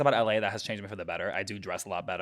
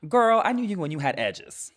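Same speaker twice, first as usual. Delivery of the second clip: high, loud, drawn-out movie quote; imitating movie character; 9 semitones higher, 6 dB louder than usual. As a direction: imitate a sassy film line, stretched out. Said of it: "that movie where she's like".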